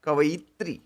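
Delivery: कवयित्री slowed, each syllable kə-ʋə-i-tri clear; slow careful word. Shown as a demonstration. Teacher correcting कवित्री, slow. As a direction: spell कवयित्री out slowly. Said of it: "option A देखिए".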